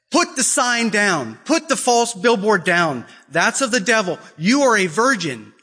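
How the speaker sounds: insistent sister. Retold or imitated. Sister insisting to abused girl.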